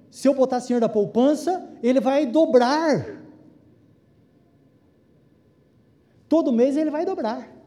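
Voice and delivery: excited. Retold or imitated. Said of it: "ele se empolgou e falou".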